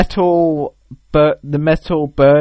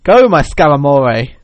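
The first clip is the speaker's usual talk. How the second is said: camp gay guy; 2 semitones higher, 6 dB louder than usual. Acted. Trainer sending a Pokemon to fight, camp gay-guy voice. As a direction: put on a theatrical gay-guy voice. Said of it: "what a gay guy would call it".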